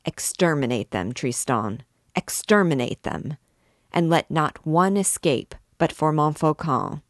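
controlled, measured anger in steady orders; cold wrath. Acted. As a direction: hold the rage tight and cold. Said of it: "with cold and concentrated wrath".

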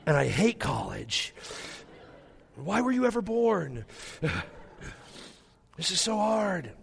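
hammed-up wail, climbing high on the complaints; mock weeping. Dad falls apart leaving daughter at college, comic high wail. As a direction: wail it in stretched-out mock sobs. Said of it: "I just began to weep".

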